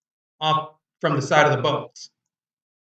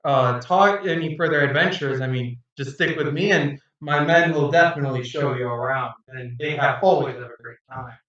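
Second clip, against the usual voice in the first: jovial captain. Acted. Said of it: "he starts laughing and goes".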